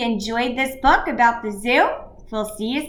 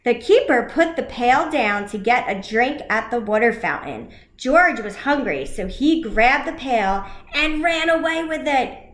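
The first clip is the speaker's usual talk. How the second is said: put-on lively read-aloud for children; animated picture-book reading; story narration.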